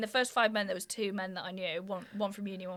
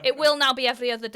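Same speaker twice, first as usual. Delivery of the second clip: mock school announcement; 3 semitones higher, 6 dB louder than usual.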